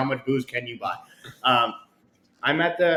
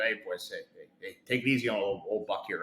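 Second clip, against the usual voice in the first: soft plea; 6 semitones lower, 7 dB quieter than usual. Retold or imitated. Pleading with young players.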